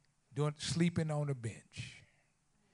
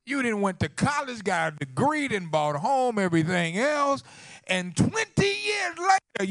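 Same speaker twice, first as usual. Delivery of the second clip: preach; 3 semitones higher, 8 dB louder than usual. Real, not acted. Preacher warning the congregation against holding grudges, loud preaching. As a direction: drive it home to the congregation in a raised voice.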